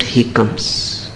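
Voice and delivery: breathy hushed whisper, voice dropped away. Real, not acted. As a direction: let it fall to a whisper. Hushed close of a promise.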